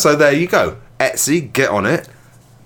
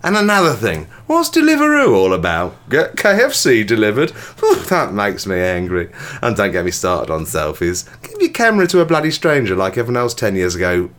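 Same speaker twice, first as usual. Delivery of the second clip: a mild, understated grumbling angry persona. Acted. Finishing the wish to Santa, lightly hammed angry persona. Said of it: "I can just finish this in the angry voice".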